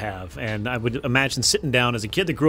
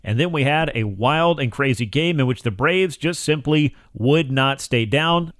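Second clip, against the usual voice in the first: projected, measured presenter delivery; sports radio monologue; 4 semitones higher, 3 dB louder than usual. Acted. Host recapping the Braves' wild comeback for listeners, radio monologue. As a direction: lean on key words like a radio host.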